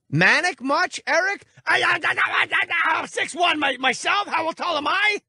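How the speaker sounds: high, frantic put-on shouting; hammed-up high panic voice; mock manic caller. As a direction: ape a jittery caller tripping over words. Host impersonates frantic caller.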